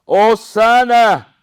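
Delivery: loud, high, drawn-out acclamation; crowd shouting. Acted. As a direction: cry it out like a crowd, each one held long. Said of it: "la gente gritaba".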